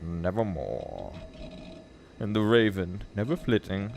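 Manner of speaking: slow, measured gothic verse; solemn poem recital. Acted. Reader voicing the raven's answer, solemn. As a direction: let the lines fall back, grave and drawn out.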